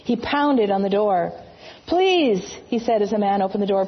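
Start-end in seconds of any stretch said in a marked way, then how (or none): 1.9-2.4 pleading. Acted. Joseph begging at inn door.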